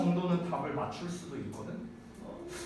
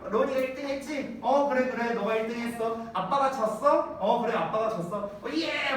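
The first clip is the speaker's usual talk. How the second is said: imitating his son; 4 semitones higher than usual. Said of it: "막 이러고 이래, 얘가".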